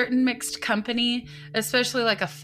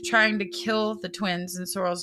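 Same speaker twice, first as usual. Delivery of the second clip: measured, even read-aloud of a crime report; article narration; 3 semitones lower, 4 dB quieter than usual. A narrator's reading. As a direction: read the account out evenly and seriously.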